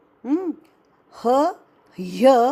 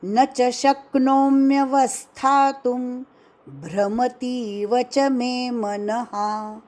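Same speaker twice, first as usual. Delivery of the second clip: measured Sanskrit chanting of the shloka; verse recitation. Shown as a demonstration. Teacher recites the Gita verse for students, chanting.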